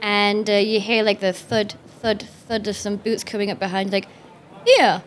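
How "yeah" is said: gruff guard calling out; security guard voice. Acted. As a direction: bark it like a bored guard.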